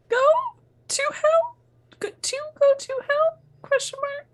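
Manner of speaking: puzzled reading. Real, not acted. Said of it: "Not sure which one that is".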